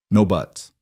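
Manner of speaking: kind, settled refusal; gentle but firm. A narrator's reading. Cowboy cuts off the teacher's protest, gentle but firm. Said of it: "His voice was gentle but firm".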